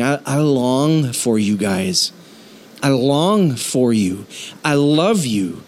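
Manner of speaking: slow, sincere "I long for you". Acted. Paul speaking lovingly to his church, slow and sincere. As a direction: say it as pure, earnest affection. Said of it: "Paul was just standing in the purity".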